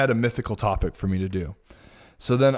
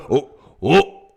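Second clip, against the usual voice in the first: disgusted surprise; 4 semitones higher, 4 dB louder than usual. Retold or imitated. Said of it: "Dusty goes".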